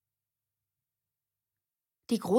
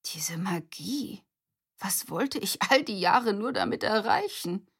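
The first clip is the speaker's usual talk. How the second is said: dazed whisper; 2 semitones higher than usual. Acted. Grandpa dazed, drifting.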